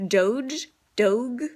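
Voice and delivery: "Doge" tried as dohj, then dohg, both with a rise; unsure guess. Shown as a demonstration. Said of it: "I don't know how to say it".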